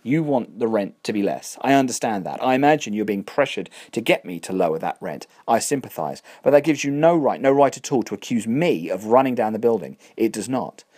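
builds from calm to a loud, offended outburst; indignant landlord. Acted. Landlord rebuking Catherine, growing loud and indignant.

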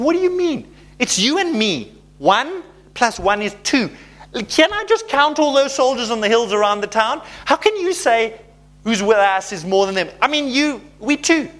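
high, rising mock panic; pleading with disbelief; panicked servant. Servant frets at Elisha about the soldiers, high and panicky. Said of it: "he's freaking out".

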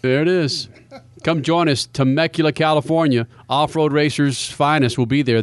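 upbeat radio ad read for the race party; punchy Southern California radio promo read. Acted. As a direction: sell the sponsor like a radio host. Live sponsor ad read.

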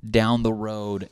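hint of Dane Cook emphasis; Dane Cook impression. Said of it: "Dane Cook".

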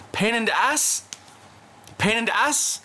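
high teasing singsong question; joking doctor voice. Retold or imitated. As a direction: tease him like a jokey doctor.

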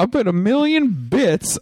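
put-on high, slow Japanese accent.

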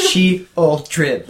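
SHEOLDRED slowly sounded out syllable by syllable; careful pronunciation demo. Shown as a demonstration. Co-host correcting how a card name is said, careful Sheoldred. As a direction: spell out Sheoldred by ear, piece by piece.

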